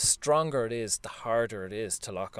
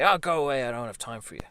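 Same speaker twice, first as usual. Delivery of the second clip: put-on shooing child away; 2 semitones higher, 6 dB louder, faster than usual. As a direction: shout away the inner child. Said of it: "would you look at the seven-year-old you and say".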